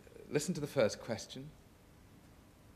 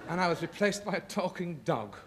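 laughing at the punchline; 5 semitones higher than usual. Real, not acted. Guest finishing his fainting story to the host, laughing. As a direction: deliver the joke and crack up.

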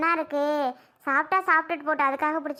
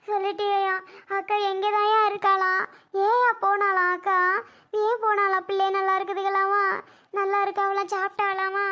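tearful relief; 3 semitones higher than usual. Acted. Mother weeping with relief while asking about her daughter. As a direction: cry out your relief and worry for the daughter. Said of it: "ஏம்மா அழுகுற?".

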